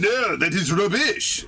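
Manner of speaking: high, slow mock German accent; bad German accent. Streamer parrots the game character's verdict, failed German accent. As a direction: draw it out in a hammed-up, badly faked German accent. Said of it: "I can't do a German accent".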